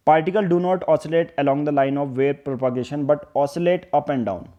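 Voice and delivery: slow, word-by-word textbook definition; teacher reading a definition slowly aloud; slow dictation. Acted. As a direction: dictate it so students can write.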